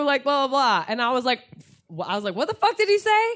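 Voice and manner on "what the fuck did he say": high-pitched mock indignation; retold outrage. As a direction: imitate yourself demanding answers, pitch jumping up. Retold outraged reply to bouncer.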